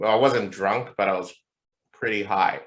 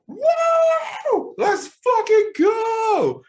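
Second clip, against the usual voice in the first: high, loud whooping cheer; wild drunken whoop; drunken party yell; 5 dB louder, much slower than usual. Retold or imitated. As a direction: yell it like you just walked into the club hammered. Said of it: "So I walk in and I'm just like".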